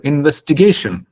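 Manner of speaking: ഇൻവെസ്റ്റിഗേഷൻ as a dictionary would pronounce it; model pronunciation. Shown as a demonstration. Trainer showing students the word Google gives, ഇൻവെസ്റ്റിഗേഷൻ in model pronunciation. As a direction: say ഇൻവെസ്റ്റിഗേഷൻ evenly, without punching the first syllable. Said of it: "Google പറഞ്ഞു തരും".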